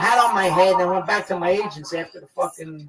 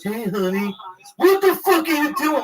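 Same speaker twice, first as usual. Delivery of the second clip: a hint of a brash agent; lightly imitated big-shot agent; agent's voice; 5 semitones higher than usual. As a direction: sweet-talk that flips into swearing. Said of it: "he used to talk like that".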